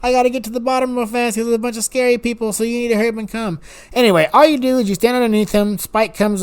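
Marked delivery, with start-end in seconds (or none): 0.0-3.6 higher excited telling-off. Retold or imitated. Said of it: "I'm like".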